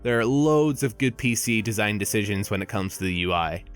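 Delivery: usual speaking voice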